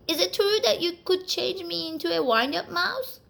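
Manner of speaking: quivering voice. Acted. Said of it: "in a quivering voice".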